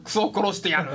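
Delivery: mock standard-Japanese cursing through a laugh; laughing imitation of un-Osakan Japanese; not Osaka dialect. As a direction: tease with a non-Osaka accent, laughing. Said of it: "全然大阪弁ちゃうもんね".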